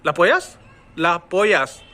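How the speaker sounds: "लापोयस" as one joined word; ला flowing straight into पोयस; one single a in "लापोयस"; merged vowels. Shown as a demonstration. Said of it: "लेकिन मैं क्या पढ़ूंगा".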